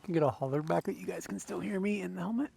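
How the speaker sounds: muffled, speaking inside a helmet; talking through a closed helmet. Real, not acted. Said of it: "we'll see if we're in the helmet".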